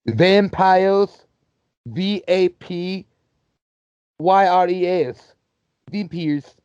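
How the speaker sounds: high, slow, letter-by-letter goofy dog voice; dog voice spelling. Retold or imitated. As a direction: spell it out like a dopey cartoon dog. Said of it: "that's how they would say it".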